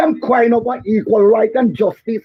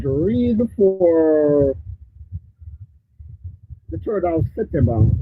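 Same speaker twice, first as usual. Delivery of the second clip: muffled, like through cloth; 6 semitones lower, 4 dB quieter, slower than usual. Real, not acted. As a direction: sound muffled and distant. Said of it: "you're sounding muffled".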